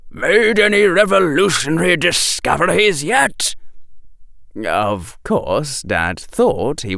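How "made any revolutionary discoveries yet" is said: hearty, higher-pitched dad voice; a jovial professor father; cheerful father. Acted. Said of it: "said his father as he came striding up".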